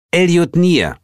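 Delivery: high, loud correction; high-voiced, miffed correction; pointed correction. A narrator's reading. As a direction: correct the name sharply. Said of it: "korrigierte mich Heel".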